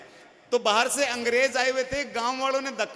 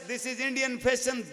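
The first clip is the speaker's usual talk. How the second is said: slow mock English; much slower than usual.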